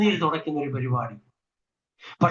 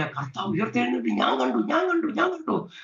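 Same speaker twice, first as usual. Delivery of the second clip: acted breathless joy, rushing through repeats; excited witness, voice leaping up midway; joyful announcing; 3 semitones higher, 4 dB quieter than usual. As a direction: imitate someone gladly spreading the news. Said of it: "ചിരിച്ചോണ്ട് സന്തോഷത്തോടെ പറയുക".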